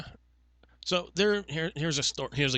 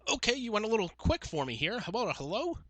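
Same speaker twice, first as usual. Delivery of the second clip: higher, lilting mock-patient voice; put-on polite exasperation; 8 semitones higher than usual. Agent to rushing caller, mock-patient chiding. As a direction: gently chide with a singsong lift.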